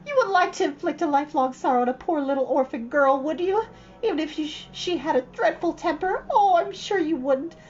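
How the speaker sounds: put-on high, dramatic pleading girl; beseeching. Anne on her knees begging Missus Lynde's forgiveness, beseeching. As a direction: throw yourself on her mercy, theatrically.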